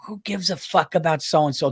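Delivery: muttered under his breath to the dog; low aside to the dog, mild. Retold or imitated. Husband to his dog out of wife's earshot, quietly muttered. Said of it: "I said it low".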